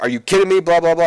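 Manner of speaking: high, loudish mock griping; mock outraged protest. Triple H griping about the booking, mock outraged.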